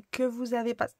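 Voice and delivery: words broken by hiccups. Real, not acted. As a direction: cut off by a hiccup. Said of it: "pardon, j'ai le hoquet".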